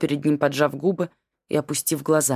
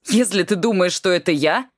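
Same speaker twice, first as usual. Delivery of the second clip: hot-tempered start, a touch louder; heated; 2 semitones higher, 3 dB louder than usual. Acted. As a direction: flare up at his father. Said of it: "запальчиво начал сын".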